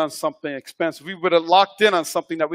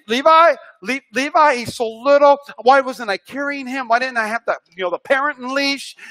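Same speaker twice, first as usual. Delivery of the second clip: panicked parent; 6 semitones higher than usual. Retold or imitated. Panicking over missing toddler.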